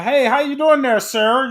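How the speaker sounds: mock polite small talk; proper white-neighborhood greeting. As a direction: sound extra proper for the neighbors. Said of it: "be like".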